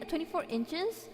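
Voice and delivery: questioning the number; puzzled rising repeat; incredulous question. Real, not acted. Doubting the size just read.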